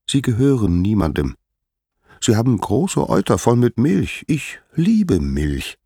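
a hint of a little god eyeing a prize; lightly voiced young Hermes, self-justifying. Hermes reasons about the cows.

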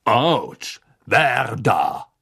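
sharp surprised yelp; startled cry. Acted. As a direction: caught off guard. Karkaroff startled in dark.

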